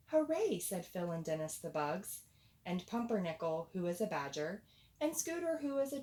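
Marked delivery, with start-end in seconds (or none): 0.1-0.6 high, loud happy cheer; excited cheer. Acted. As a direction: cheer it out with joy. Animals cheer the wedding news.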